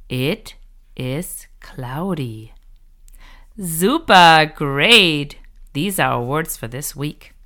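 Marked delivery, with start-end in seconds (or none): 3.6-5.4 cheerful praise. Real, not acted. Teacher praises the learner.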